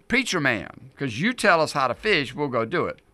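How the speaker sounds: mock-obedient fisherman; sarcastic. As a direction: lightly needle the preacher with feigned compliance. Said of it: "in a very sarcastic way".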